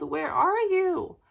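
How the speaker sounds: searching shout, loud and high; calling out. Acted. Bill searches the sky for George, loud and high. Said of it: "he called".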